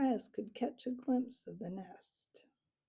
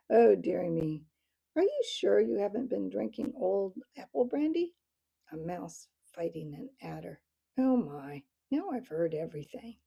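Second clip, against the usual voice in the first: amused; 6 dB louder than usual. Acted. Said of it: "Captain Snow laughed helplessly".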